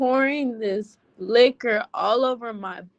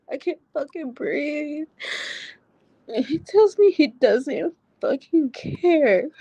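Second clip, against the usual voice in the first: crying; 3 semitones higher than usual. Real, not acted. Crying while retelling the strangling.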